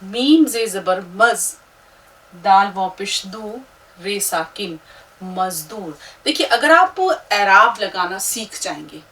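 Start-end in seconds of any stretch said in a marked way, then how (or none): 0.0-6.0 slow syllable spelling for students to repeat; teacher asking students to spell along. Shown as a demonstration. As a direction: spell it out for them to follow. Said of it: "हिज्जे करके पढ़िएगा मेरे साथ में".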